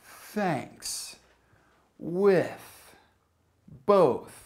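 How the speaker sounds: "Thanks. With. Both." with th as merely blown air; unvoiced th examples. Shown as a demonstration. Teacher gives examples "Thanks, With, Both", th breathed without vibration. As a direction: say "Thanks", "With", "Both" separately, each th voiceless. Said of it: "the unvoiced T H sound".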